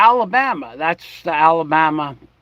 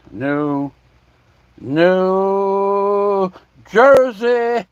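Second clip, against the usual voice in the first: New Jersey accent; 4 semitones higher, much slower than usual. Shown as a demonstration. Drawled Jersey accent demo.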